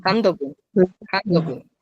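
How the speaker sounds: "Handogun" in one quick unbroken run; all three syllables of "handogun" joined in one beat; quick, run together. Shown as a demonstration. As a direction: rattle off each "handogun" without an inner pause. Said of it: "se lee de corrido, rápido".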